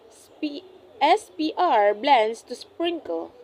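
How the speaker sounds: S P R spelled out slowly, each letter heard; blend demo. Shown as a demonstration. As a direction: sound out each consonant of sprinkle. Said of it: "each makes its own sound".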